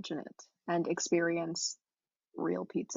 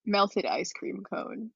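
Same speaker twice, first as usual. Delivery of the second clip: slow deadpan; 4 dB louder, much slower than usual. Acted. Deadpan listener comment.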